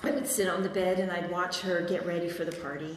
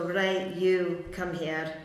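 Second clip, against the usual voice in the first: Scottish mum; much slower than usual. Retold or imitated. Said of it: "She had a very thick Scottish accent".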